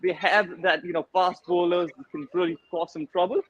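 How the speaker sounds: put-on light Caribbean lilt, West Indian accent; easygoing West Indian accent, laughing in. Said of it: "Great work on that accent".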